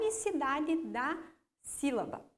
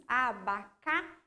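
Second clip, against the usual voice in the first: abacá in slow, separate syllables; unstressed syllables separated; 3 semitones lower, much slower than usual. Shown as a demonstration. Teacher showing pupils the átonas, abacá slowly syllable by syllable. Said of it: "a gente coloca como sílabas átonas".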